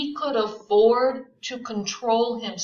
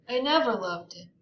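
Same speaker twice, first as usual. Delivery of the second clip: reluctant; 3 semitones higher than usual. Acted. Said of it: "with perceptible reluctance".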